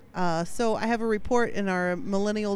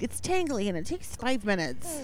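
mocking; 5 semitones higher, slower than usual. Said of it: "their reasons".

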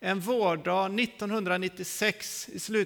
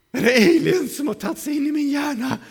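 loud, high, alarmed outburst; hammed-up frightened cry; acted panic; 7 semitones higher, 9 dB louder than usual. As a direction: freak out as if invaded. Acted panic at whispers in head.

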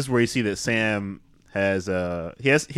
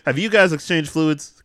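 slow, higher, louder mock accusation; mock suspicious question; 7 semitones higher, 5 dB louder, slower than usual. Friend mocking Victor's suspicion of the couple, slow mock accusation. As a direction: drag out the accusation slowly. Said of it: "He's like".

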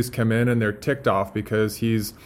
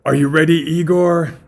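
loud, theatrical mad scientist; big stagey doctor, rousing his assistant; Doctor Frankenstein; 5 semitones higher, 7 dB louder than usual. Acted. Doctor to Igor before the experiment, grandly theatrical. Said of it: "starting with Doctor Frankenstein, he says".

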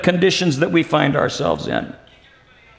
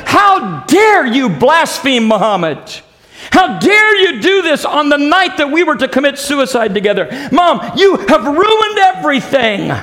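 raised, strained retelling of a furious daughter; furious shout; 5 semitones higher than usual. Retold or imitated. Daughter rages at her mother for ruining the suicide pact, furious shout. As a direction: hurl the accusation at her mother, voice climbing. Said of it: "this young lady was absolutely furious".

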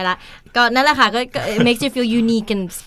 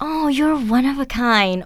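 genuinely meant, slow and kind; sincere compliment; much slower than usual. Shown as a demonstration. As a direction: say it like you mean it. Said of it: "ถ้าเกิดพูดด้วยน้ำเสียงอีกอย่าง".

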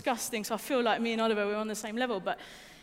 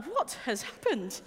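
laughing disbelief; slower than usual. Retold or imitated. Youngest in the group.

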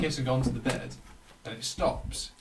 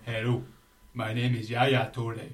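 slow, lower-pitched African accent; 4 semitones lower than usual. Shown as a demonstration. Friend takes his turn in the accent contest, African accent. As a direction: put on an African footballer introducing himself. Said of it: "African accent".

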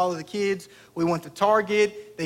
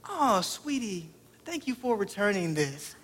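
a lightly voiced sweet young clerk, softer and slow; 5 dB quieter than usual. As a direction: coo it kindly like a clerk to a child. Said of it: "she goes".

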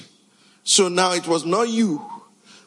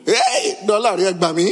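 laughing mock plea for money; greedy politician. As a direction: ham up a greedy man begging for cash. Preacher mimics greedy politician.

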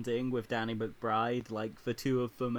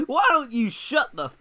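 loud, raised-pitch imitation of an outburst; mock telling-off; 5 semitones higher, 6 dB louder than usual. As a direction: act out shutting a colleague up, starting high and loud. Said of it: "says to Danny McBride".

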